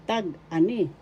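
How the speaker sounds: tag-ani split after "tag", accent on "ani"; stress on ani. Shown as a demonstration. Teacher showing where the accent is, stressed "ani" in tag-ani. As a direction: say tag-ani in two parts, lifting the "ani". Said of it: "The accent is in".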